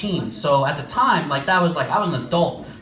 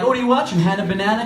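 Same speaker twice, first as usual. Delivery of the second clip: teasing; 3 semitones higher, much faster than usual. Retold or imitated. Teasing little brother.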